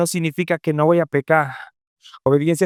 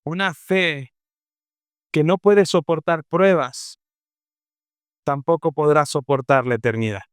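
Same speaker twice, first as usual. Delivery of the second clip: solemn quote; 3 semitones lower than usual. Acted. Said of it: "Charles Spurgeon dijo".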